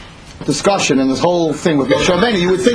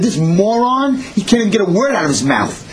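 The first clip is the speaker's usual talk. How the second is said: mocking, higher-pitched ridicule; acted scornful taunt; jeering; 4 semitones higher than usual. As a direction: jeer at him, pitch jumping up. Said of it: "They were laughing".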